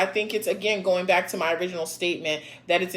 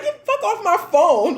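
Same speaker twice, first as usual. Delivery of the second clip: louder, higher mock snap; mock angry order; 8 semitones higher, 5 dB louder than usual. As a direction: tell him off, sharp. Imagined angry reply.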